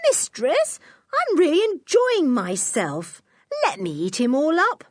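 high-pitched talking dog; high, wheedling doggy voice; reproachful dog. A narrator's reading. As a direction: plead like a dog enjoying its fun. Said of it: "gave her a reproachful glance that said".

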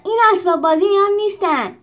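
high furious screech at the animals; angry trainer screaming the order to line up; angry shriek. Acted. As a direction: shriek the orders at them, rising. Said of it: "سپتیموس عصبانی جیغ زد".

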